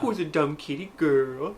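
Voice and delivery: slow, lightly put-on voice for a cat; teasing baby talk to a kitty; pet talk. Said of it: "things I say to the cat and the dog".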